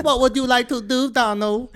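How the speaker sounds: badly faked Vietnamese accent; mock Vietnamese accent. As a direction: put on a crude Vietnamese accent, as a joke. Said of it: "Is that a good accent?".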